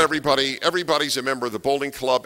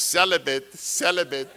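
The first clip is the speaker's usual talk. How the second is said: mock urgent warning. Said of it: "And I'm going".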